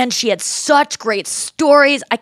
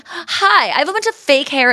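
much higher, glossy presenter voice; fake award-show voice; 6 semitones higher than usual. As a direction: play a polished award presenter. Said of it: "we're using this voice".

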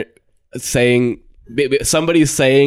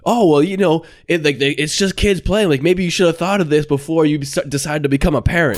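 higher-pitched imitation of her retort; mock reproach; 6 semitones higher than usual. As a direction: needle him as the woman did. Woman's retort to yelling father.

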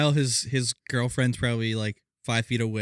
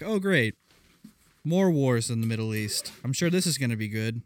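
sarcastic. Retold or imitated. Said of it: "sitting back like".

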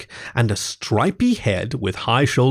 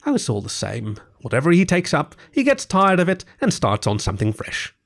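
higher-pitched animated complaint; lightly voiced gossiping Rat; 3 semitones higher than usual. Rat on Toad's boating crazes, mildly exasperated. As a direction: recount a friend's fads with mild exasperation.

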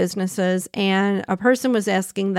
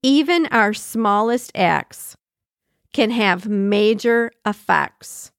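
slow emphatic repeat; slower than usual. Shown as a demonstration. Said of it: "let's repeat that last sentence".

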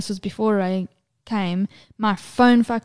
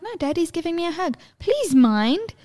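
imitating patient mother; 8 semitones higher than usual. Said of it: "And I'll be like".

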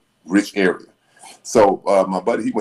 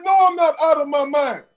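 high put-on voice; lightly voiced reply; retold calm reply. Bobby calmly answering the attendant, high put-on voice. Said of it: "He said".

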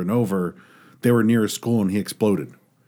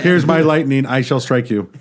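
Thor voice; 4 semitones higher, 4 dB louder than usual. Pretend. Imitating Thor.

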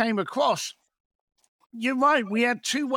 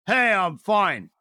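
laughing brush-off; slower than usual. Retold or imitated. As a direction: toss it off with a big laugh. Mock brush-off answer, laughing.

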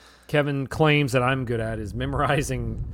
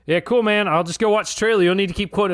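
mock fed-up kidnapper; 5 semitones higher than usual.

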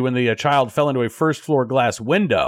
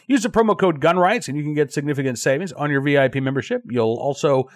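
ordinary delivery

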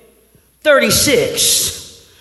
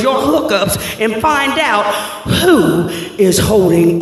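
commanding God. Retold or imitated. God instructing Joshua to call in his troops, building then grave.

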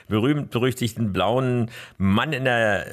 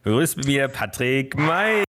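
ring announcer; 4 semitones higher than usual. Acted. Introducing guest like ring announcer.

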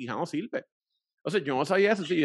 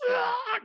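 long, very high "ah"; drawn-out cry from an aching jaw; mock pained wail. Answering his partner in the story, mock pained wail.

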